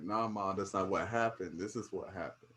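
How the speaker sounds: respectful correction. Shown as a demonstration. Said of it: "depends on how you do it".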